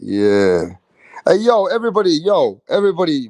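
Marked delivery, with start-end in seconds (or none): 1.3-3.3 loud, higher hype call to the crowd. Real, not acted. Streamer hailing his live viewers, loud and high. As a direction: shout it out to get everyone's attention.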